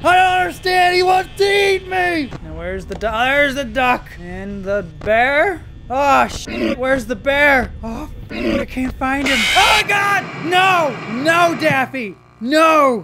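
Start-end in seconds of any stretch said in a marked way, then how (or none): 0.0-2.3 higher, frantic yelling; panicked. Real, not acted. Gamer yelling as a monster gets inside. 9.6-13.0 loud, high cry of no; shouting in dismay. Real, not acted. Gamer crying out as Daffy dies. Character Daffy about to die.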